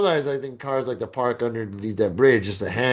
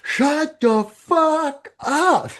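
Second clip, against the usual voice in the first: high, loud yell out a window; retold yell; 13 semitones higher, 4 dB louder, much slower than usual. Neighbour yelling down from upstairs at the noise, loud high yell. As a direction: bark it like an angry neighbour upstairs. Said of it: "I just hear her yell out the window".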